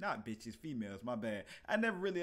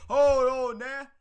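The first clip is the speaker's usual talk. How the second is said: drawn-out hold on; 6 semitones higher, 10 dB louder, slower than usual. Real, not acted. Stretched hyped reaction.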